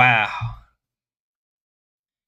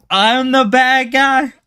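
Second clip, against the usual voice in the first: high, slow, indignant question; mock outrage; 12 semitones higher, 4 dB louder, slower than usual. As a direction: pretend to be offended, drawing it out. Mock outrage at being blamed.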